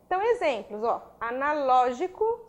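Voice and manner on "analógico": analógico drawn out slowly on LÓ; stressed syllable. Shown as a demonstration. Teacher showing the tonic syllable, analógico with a slow stressed LÓ. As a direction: stretch the LÓ in analógico. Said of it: "sílaba tônica".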